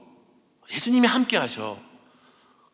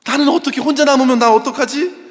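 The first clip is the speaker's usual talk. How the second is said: put-on higher, louder pleading child's wail; imitating a sobbing child; 7 semitones higher, 8 dB louder than usual. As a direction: mimic a little boy crying his heart out. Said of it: "펑펑 우는데 정말 서럽게 우는 거예요".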